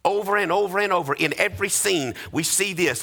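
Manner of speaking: rising, rhythmic sermon delivery; preaching. Acted. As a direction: preach it with building conviction, line after line. Preacher at full force.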